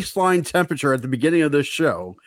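talking around a thermometer; thermometer in mouth. Real, not acted. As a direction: mouth held half closed on a thermometer. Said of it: "put the thermometer in my mouth".

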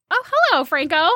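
a high, sly "Oh, hello"; coy mock greeting. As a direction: greet him like you've caught him out. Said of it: "I was like".

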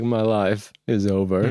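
slow, defeated robot voice; a broken robot giving up; mopey robot. Acted. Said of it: "He's like".

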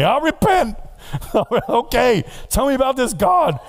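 high cartoon fisherman voice; VeggieTale voice. Fisherman eagerly repenting before Jonah, cartoon VeggieTale voice. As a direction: chirp it like a cartoon vegetable. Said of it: "VeggieTale type".

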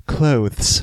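a hint of a stiff machine; robot voice. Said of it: "beat Skynet".

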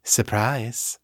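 lightly put-on upper-class voice; a touch of posh accent; Morgan's posh accent. A narrator's reading. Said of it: "His voice was not an exact match for Morgan's".

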